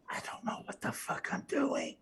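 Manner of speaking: whispered aside. Real, not acted. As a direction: confess it in a hushed whisper. Out-of-character aside to players.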